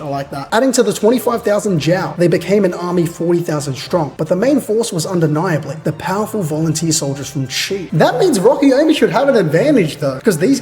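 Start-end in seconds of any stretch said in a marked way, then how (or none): 0.5-7.9 measured narrator reading; story narration. A narrator's reading. Reader narrating the battle to chat, measured narration. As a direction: read it out as a story recap.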